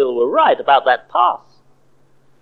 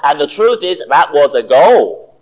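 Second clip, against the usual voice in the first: indignant insistence; 4 dB louder than usual. Acted. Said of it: "insisted John indignantly".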